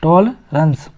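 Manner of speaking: टॉलरेंस in two parts, "TOL... runs"; "TOL-runs" for टॉलरेंस, no "ren"; correct pronunciation. Shown as a demonstration. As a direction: teach टॉलरेंस with a reduced second vowel. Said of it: "इसको पढ़ा जाएगा".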